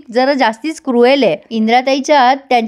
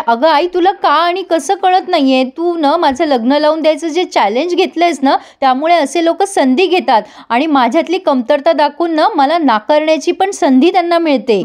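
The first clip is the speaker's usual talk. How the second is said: mildly voiced anger; 4 semitones higher than usual. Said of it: "Mukta खूप चिडते आणि म्हणते".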